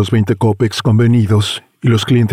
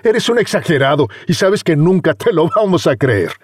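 put-on teasing young man; 7 semitones higher than usual. Friend teasing.

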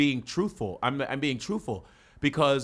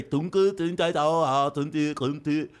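Vietnamese-like nonsense syllables; mock Vietnamese; slower than usual. Showing how the language sounds, mock Vietnamese. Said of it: "like the Vietnamese".

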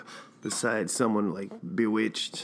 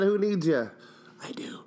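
high whispered sulk; mock pouty whisper; 9 semitones higher than usual. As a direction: sulk it under your breath. Mock hurt at listeners.

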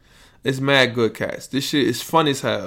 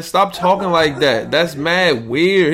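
higher, slow, disgusted disbelief; weirded out; 5 semitones higher, 4 dB louder, slower than usual. Real, not acted. Telling Tom Hanks' son to stop, baffled and slow.

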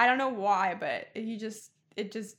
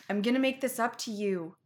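Toby apology retry. Retold or imitated. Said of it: "Try that one".

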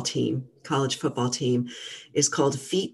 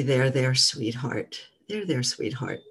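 tender self-soothing. Shown as a demonstration. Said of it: "Sort of like a grandmother figure would".

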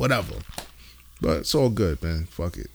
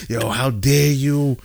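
slow, drawn-out outrage, pitched up; mock indignant wife; 5 semitones higher, slower than usual. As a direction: imitate a wife scolding, stretching each phrase. Retold angry complaint from his wife.

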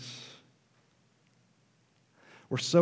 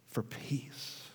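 hushed whisper; 12 dB quieter than usual. Real, not acted. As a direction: whisper it, near silent. Climax of point, hushed.

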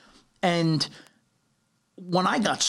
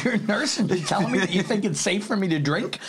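incredulous, laughing through it; retold disbelief with a laugh; 4 semitones higher than usual. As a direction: laugh at the absurdity as you ask. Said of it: "I said".

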